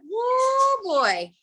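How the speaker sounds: high, loud, delighted whoop; excited whoop. Real, not acted. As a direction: let out a thrilled woo. Excited about a whistler.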